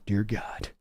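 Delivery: a quiet groan of dismay at the pick; low dismayed murmur. Real, not acted. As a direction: drop low and soft in despair. Dismay at a bad draft pick.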